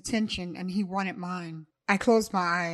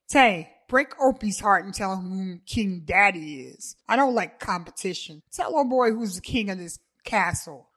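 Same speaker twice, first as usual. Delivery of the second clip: cocky boast; 5 dB louder than usual. Acted. Davon boasts.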